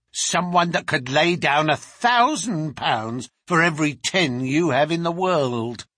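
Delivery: lightly voiced boastful servant; defiant servant woman. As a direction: answer back with a touch of scorn.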